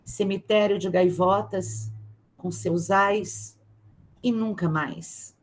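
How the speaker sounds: careful, lingering read of a poem. Acted. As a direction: give each listed word its own weight. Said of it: "mas eu vou tentar". (leitura cuidadosa de poema, pausada)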